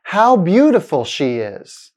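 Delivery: exclamation rising on "beautiful", falling away on "is"; falling intonation. Shown as a demonstration. Teacher models an exclamation for learners, falling intonation. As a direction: lift "beautiful", then drop through "she is". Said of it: "sounds like a fall in the pitch".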